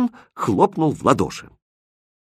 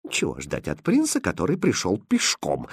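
soft, spiteful hiss; 2 semitones lower, 5 dB quieter than usual. Acted. Second lady sneers at the prince, soft hissing aside. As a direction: sneer under your breath. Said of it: "прошипела вторая дама".

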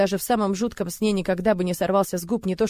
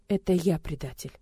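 ordinary delivery

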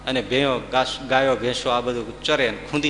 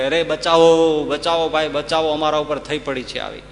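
calling for help. Retold or imitated. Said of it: "ગામમાં જઈને બૂમ પાડી કે".

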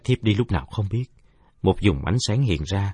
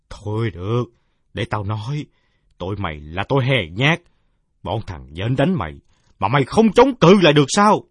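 shrill rat accusing; 3 semitones higher, 5 dB louder than usual. Acted. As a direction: accuse him of cowardice. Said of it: "vang lên lanh lảnh". (giọng chuột buộc tội lanh lảnh)

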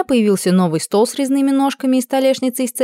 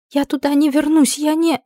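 panicked; 8 semitones higher than usual. Acted. Panicked girl.

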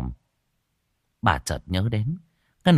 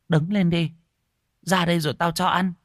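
put-on old woman relenting; 9 semitones higher than usual. A narrator's reading. Old woman offers food.

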